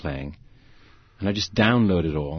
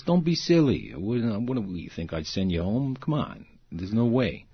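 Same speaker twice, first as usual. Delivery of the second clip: kindly reassurance; 2 semitones higher than usual. Retold or imitated. Director telling scared actor he won't be fired, reassuring. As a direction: wave the worry away kindly. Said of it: "He was so sweet".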